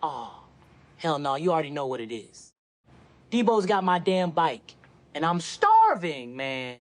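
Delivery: Chris Tucker impression. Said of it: "do your Chris Tucker impression".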